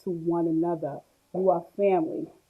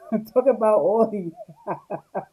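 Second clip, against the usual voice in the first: laughing while teasing; teasing chat commenters while laughing. Real, not acted. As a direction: say it through a laugh.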